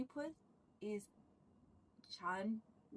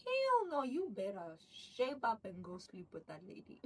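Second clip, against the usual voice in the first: shrill mock scolding. Wife slapping him, orders him to the lady, mock yelling. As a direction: shriek the refusal at him like a bossy wife.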